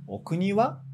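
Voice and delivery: short question, raise the pitch on "wa"; rising on "wa". Shown as a demonstration. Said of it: "um tom mais alto".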